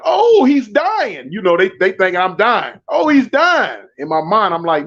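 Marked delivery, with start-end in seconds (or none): 0.0-1.3 slow, drawn-out high "oh, he's dying"; hammed-up onlooker panic; mock panic. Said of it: "somebody hollered". 2.9-3.8 raised, brisk "oh, he's dying"; quicker alarmed repeat. Retold or imitated. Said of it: "somebody hollered".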